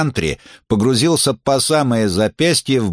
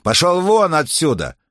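higher barked order to leave; shouting at trespasser; 7 semitones higher than usual. Acted. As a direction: throw him out with your voice. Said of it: "рявкнул охранник". (громкий окрик охранника)

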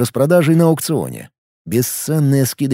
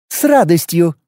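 snarling; 4 semitones higher than usual. Acted. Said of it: "оскалилась".

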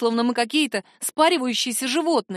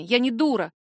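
usual speaking voice

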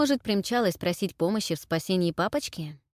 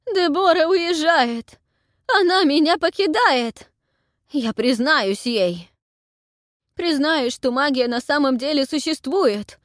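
desperate outburst; 8 semitones higher, 7 dB louder than usual. A narrator's reading. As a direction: pour out his despair loudly. Anhel despairing, shouting.

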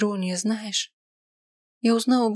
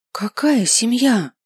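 louder, slow, biting question; angry retort to her friend; flash of anger; 4 semitones higher, 5 dB louder, slower than usual. A narrator's reading. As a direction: flare up at her. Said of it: "Вспыхиваю от злости".

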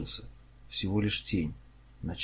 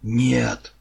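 loud, higher cry of refusal; shouted refusal; 5 semitones higher, 12 dB louder than usual. A narrator's reading. Kars refuses Rianon in alarm, shouting. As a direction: shout it out in full force. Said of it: "закричал Карс".

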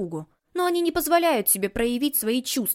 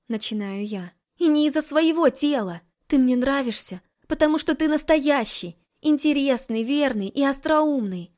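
heartfelt confession; 4 semitones higher, 5 dB louder than usual. Acted. Heroine confesses her feelings.

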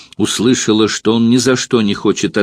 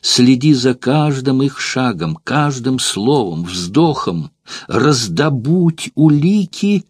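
halting, broken orders, slowing; faltering voice. Acted. Courtesan sending Metrobius to spy, voice faltering. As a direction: push the commands out haltingly. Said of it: "прерывающимся голосом".

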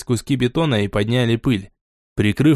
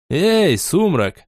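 muffled voice; 5 semitones higher, much slower than usual. Acted. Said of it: "приглушённый голос".

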